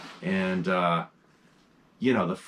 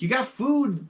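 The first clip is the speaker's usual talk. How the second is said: tag; 13 semitones higher than usual. Retold or imitated. Talking to the cat.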